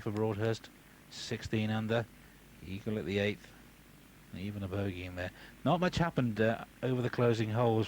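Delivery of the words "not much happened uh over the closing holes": ironic understatement. Real, not acted.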